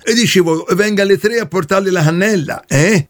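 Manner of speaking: plumber character voice. Acted. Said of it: "io sono Caio, il trombaio".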